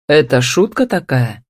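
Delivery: mildly irritated male character question; understated irritation. A narrator's reading. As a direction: put a touch of annoyance into the question. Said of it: "раздражённо поинтересовался Демьяновский".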